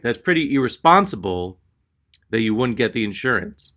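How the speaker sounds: said out plainly to someone's face; direct confrontation. Retold or imitated. Clerk facing customer head-on, openly reproachful. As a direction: repeat the mutter openly, fully voiced. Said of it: "makes direct eye contact".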